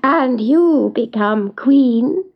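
drawn-out, lightly voiced little dwarf; slow the ends as a bargaining dwarf; teasing dwarf. Dwarf bargains again with Eloise, lightly voiced and teasing.

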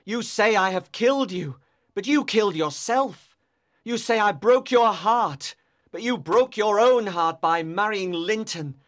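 impassioned accusing lover; tormented outpouring, stressing the key words; anguished cry. A narrator's reading. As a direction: hurl the reproach with heavy emphasis. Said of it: "he cried".

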